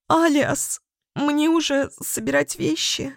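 высокий, сквозь слёзы; восклицание на грани плача; плачущая фея. A narrator's reading. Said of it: "со слезами воскликнула Фиа". (отчаянный плач феи)

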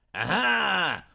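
delighted shout; gleeful yell. A narrator's reading. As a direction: cheer as the blow lands. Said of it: "обрадованно завопил обалдон".

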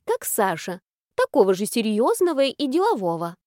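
lightly voiced fretting granny; a hint of a worried old woman. Old grandmother voice, lamenting.

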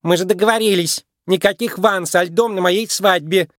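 high-voiced bridal complaint; disapproving. A narrator's reading. Bride reproaches her father at her wedding, high and disapproving. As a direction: scold with open disapproval. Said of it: "вздохнула с явным неодобрением".

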